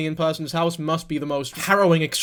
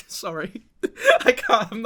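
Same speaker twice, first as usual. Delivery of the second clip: laughing; 3 semitones higher, slower than usual. Real, not acted. Laughs after the accent bit.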